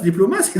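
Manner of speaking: quick diplomacy with the beat on MA; Arabic-style mispronunciation. Shown as a demonstration. Teacher laughs at a wrong way, Arabic-like stress on MA. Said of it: "That's Arabic".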